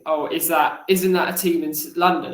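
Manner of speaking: light imitation of a Kiwi accent; hint of a New Zealand accent. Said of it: "he said in a very thick Kiwi accent".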